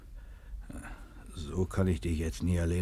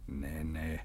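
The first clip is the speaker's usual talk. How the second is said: soft whispered denial; quiet whispered no; hushed whisper; 3 semitones lower, 8 dB quieter than usual. Acted. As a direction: hush her gently. Hushing her.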